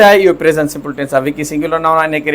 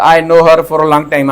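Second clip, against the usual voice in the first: slow wrong example; 3 dB louder, much slower than usual. Shown as a demonstration. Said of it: "ايئن نه ٿيندو ته".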